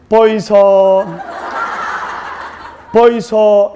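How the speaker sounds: Gyeongsang dialect wife. Retold or imitated. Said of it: "경상도 신부가 경상도 신랑에게".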